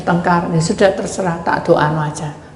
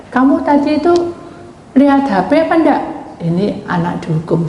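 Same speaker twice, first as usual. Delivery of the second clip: ordinary talk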